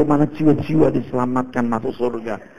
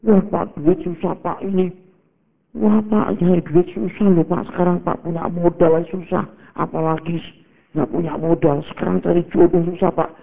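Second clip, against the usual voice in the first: higher whiny grumble about money and life; mock the people who moan to the pastor; lightly voiced complainer, pitched up; complaining congregant; 5 semitones higher than usual.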